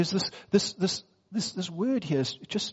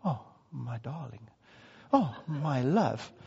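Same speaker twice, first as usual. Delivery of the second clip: mock romantic swoon; 3 semitones lower, 3 dB quieter, slower than usual. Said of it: "get up in the morning going".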